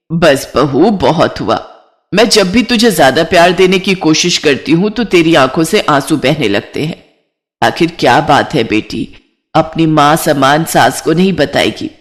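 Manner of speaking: a hint of coaxing concern; concerned mother-in-law. (चिंतित सास की हल्की नीची आवाज़)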